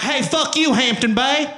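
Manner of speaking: high, loud redneck rant; angry redneck. Acted. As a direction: rant like a pissed-off redneck, hammed-up. Angry redneck boycotter ranting.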